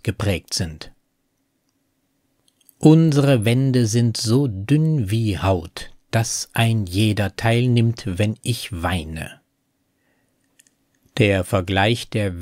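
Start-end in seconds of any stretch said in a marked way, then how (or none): 2.8-9.4 slow, measured verse reading, sinking at the close; poem recitation. Acted. Narrator quoting verse before explaining it, slow recitation. Re-reads verse within analysis.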